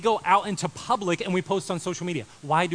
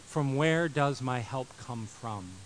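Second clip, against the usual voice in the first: psalmist's cry; 3 semitones lower, much slower than usual. Retold or imitated. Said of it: "the psalmist cried".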